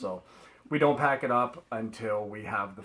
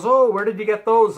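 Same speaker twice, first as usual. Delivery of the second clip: high, loud call across a store; imitated yell; 9 semitones higher, 12 dB louder than usual. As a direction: call out like an eager stranger. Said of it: "she yelled over at me".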